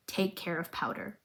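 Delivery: faint, hushed dying words; dying whisper. Retold or imitated. Father's last words to Vi, said faint and hushed. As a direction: breathe it out like a dying man.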